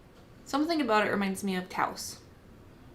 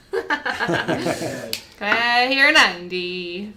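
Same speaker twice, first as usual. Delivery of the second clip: laughing; 4 dB louder, much slower than usual. Real, not acted. Laughing mid auction call.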